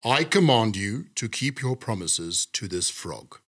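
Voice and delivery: sternly. Acted. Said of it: "said the king sternly".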